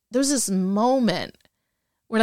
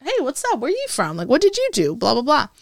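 mock chatty greeting; 6 semitones higher than usual. Recruits chatting each other up.

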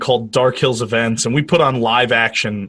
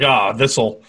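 mock villain musing; 4 semitones lower, slower than usual. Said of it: "it's just like".

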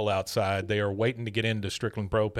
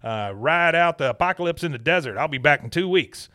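higher, cutting-in boss voice; frantic interruption; 5 semitones higher than usual. Retold or imitated. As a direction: brush him off in a hurry. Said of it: "he interrupts and he goes".

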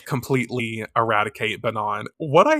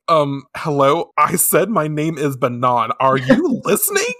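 mock exasperation; 2 semitones higher, 5 dB louder than usual. Acts out ignored Banan objecting.

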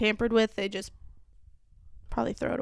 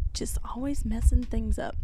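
whisper; 3 dB quieter than usual. Real, not acted. Whispered aside.

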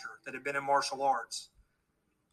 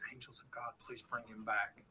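much softer, low hushed plea; whispered prayer; 5 semitones lower, 13 dB quieter than usual. Retold or imitated. Quietly asking the angels to bring the boy back, hushed. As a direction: whisper it so nobody hears. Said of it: "So I whispered".

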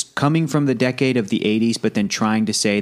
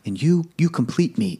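higher-pitched mock plea; imitated pleading; 5 semitones higher than usual. Tom Cruise's character pleading with Renée Zellweger, imitated pleading. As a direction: lightly act out a movie plea. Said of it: "when he was pleading".

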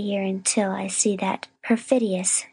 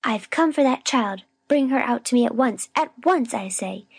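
higher-pitched, emphatic scolding; indignant demand; 5 semitones higher than usual. A narrator's reading. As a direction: demand the child back like an outraged accuser. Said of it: "cried Miss Rosetta".

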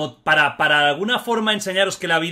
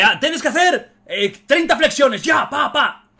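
much higher and louder, a barking drill-sergeant shout; 9 semitones higher, 5 dB louder, slower than usual. Retold or imitated. Host mocking a drill sergeant ordering push-ups, hammed-up shout. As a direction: yell it like a sergeant on a recruit. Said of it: "lo típico de".

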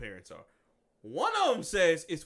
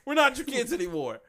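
Scarlet Witch quote; 8 semitones higher, 4 dB louder than usual. Retold or imitated. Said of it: "Scarlet Witch was like".

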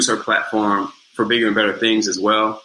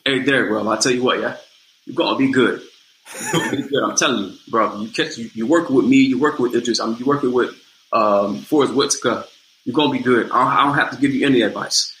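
put-on British accent. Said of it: "this thick British accent".

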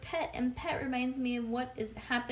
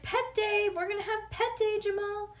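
much higher, louder, building holler; 10 semitones higher, 4 dB louder than usual. Acted. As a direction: yell the news across the classroom. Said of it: "I hollered".

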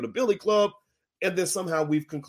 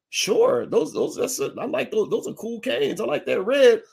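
put-on higher, eager young self; mock naive eagerness; 7 semitones higher, 3 dB louder than usual. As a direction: play it starry-eyed and eager. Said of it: "I was like".

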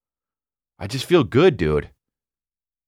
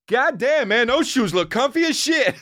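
mock booming bathroom shout, pitched up; loud guy in bathroom; 13 semitones higher than usual. Stranger yelling about comfy shoes, mock booming voice. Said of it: "and he's just like".

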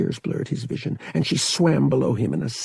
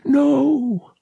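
a firm, louder and higher No; insistent; 6 dB louder than usual. A narrator's reading. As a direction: refuse her flatly and loud. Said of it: "Han insisted".

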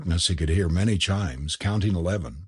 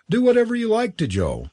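high-pitched exclamation, lightly raised; crying out; 12 semitones higher, 3 dB louder, faster than usual. A narrator's reading. Forbes to his club mates about Joe, crying out. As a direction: call it out high, only a little louder. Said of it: "cried Forbes".

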